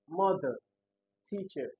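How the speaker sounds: "mother, teacher", each hit on its opening syllable; first-syllable stress. Shown as a demonstration. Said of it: "Mother has the same stress as teacher".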